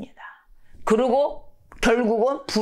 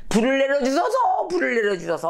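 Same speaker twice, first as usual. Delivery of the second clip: high-pitched mock plea, easing off on the repeat; crying out in prayer; 6 semitones higher than usual. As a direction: imitate worshippers calling on their god. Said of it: "막 부르짖습니다".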